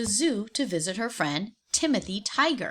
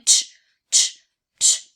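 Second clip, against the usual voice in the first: tch tch; 9 dB louder than usual. Acted. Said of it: "shaking the bars with both hands".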